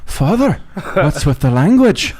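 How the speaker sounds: high-pitched shocked nuns; scandalized protest. Acted. Nuns to the priest who just swore, scandalized protest. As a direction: start high, aghast, and scold him.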